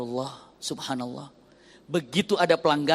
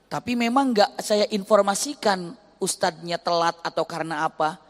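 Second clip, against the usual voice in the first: ordinary talk, nothing marked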